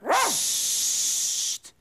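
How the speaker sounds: unvoiced, sharp shush. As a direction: hush them all at once. Hushing the children.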